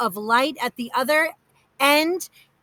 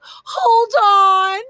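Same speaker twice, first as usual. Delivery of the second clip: high, louder desperate plea; pleading; 7 semitones higher, 7 dB louder than usual. A narrator's reading. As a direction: beg her to stop, voice lifted high. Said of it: "pleaded Aunt Gladys".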